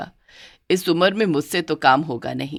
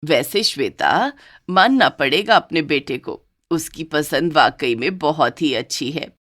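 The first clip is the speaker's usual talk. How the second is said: fond mother-in-law; 3 semitones lower than usual. Acted.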